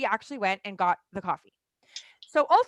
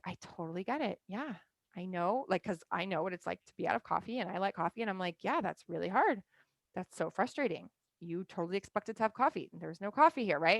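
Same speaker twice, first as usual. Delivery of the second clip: soft, sympathetic retelling, softer; empathizing; 2 semitones lower, 6 dB quieter than usual. Retold or imitated. Loving wife softly soothing her husband over no coffee, sympathetic. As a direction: gently soothe a frustrated partner. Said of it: "really empathizing with him".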